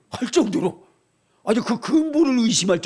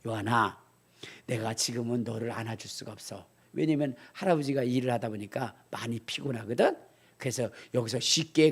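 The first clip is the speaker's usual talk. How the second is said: lower, softer tired grandpa; tender to grandson; 6 semitones lower, 7 dB quieter than usual. Retold or imitated. Grandfather softly telling his grandson he's too tired. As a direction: gently explain to the toddler. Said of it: "걔한테 그랬어요".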